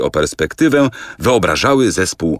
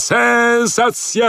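drawn-out barker cry; much slower than usual. Acted. Poster's closing cry repeated.

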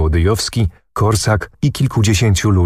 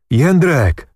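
higher-pitched narrated exclamation; a restrained cry to a dear friend; 6 semitones higher than usual. A narrator's reading. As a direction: call the name out, mildly. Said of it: "krzyknął".

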